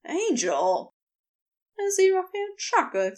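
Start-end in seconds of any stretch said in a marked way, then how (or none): 0.1-0.9 startled low exclamation with a lift; shocked cry. A narrator's reading. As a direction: exclaim it as if just dropped. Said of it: "cried out in shock as he landed".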